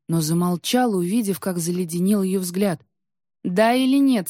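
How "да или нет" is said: louder, higher, pressing demand; insistent demand. A narrator's reading. Queen demands wolf's answer to her bargain, insistent.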